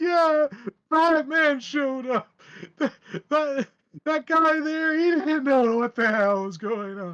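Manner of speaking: crying while speaking. Voicing a terrified captive who starts crying and apologizes: crying while speaking. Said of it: "And he's just crying".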